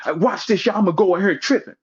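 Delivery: a hint of a cocky, showing-off Holla; mocking Holla. Mocking Holla as he brags to his crew before going in, lightly voiced. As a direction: brag it to the crew before barging in. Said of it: "the nigga went to the emergency room barking".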